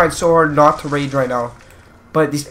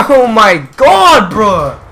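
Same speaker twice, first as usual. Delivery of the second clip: high, loud, slow laughing cry; laughing shriek; 6 semitones higher, 8 dB louder, much slower than usual. Real, not acted. Gamer laughing off the chaos, high and loud. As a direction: laugh it out in disbelief.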